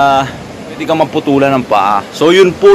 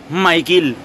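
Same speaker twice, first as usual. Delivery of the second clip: "Michael" ending in a clear "-kil", Philippine style; Philippine accent; 2 semitones higher than usual. Shown as a demonstration. Vlogger repeating the changed name, Philippine accent. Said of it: "ay nagiging Michael na".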